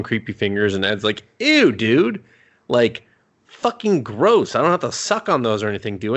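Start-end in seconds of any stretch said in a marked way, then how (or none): 1.4-6.2 mock disgust. Ed recoiling from Jerry's creepy fingers, mock disgust. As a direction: imitate someone thoroughly grossed out.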